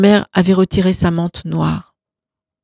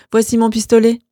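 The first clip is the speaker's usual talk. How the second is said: lightly higher, amused offer; smiling offer; 4 semitones higher than usual. Acted. Roman offering his pistol to his brother, amused. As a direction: offer the gun with a smile. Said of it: "Il eut un sourire".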